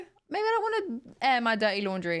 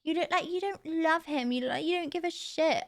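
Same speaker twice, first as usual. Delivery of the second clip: higher, whiny mock of a commenter; mock commenter voice, raised pitch; 6 semitones higher than usual. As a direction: parrot the comments back sneeringly. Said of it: "People say it all the time".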